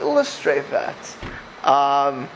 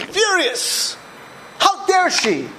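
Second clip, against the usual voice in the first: offended snob; 12 semitones higher, much slower than usual. Retold or imitated. Mimics offended haughty person.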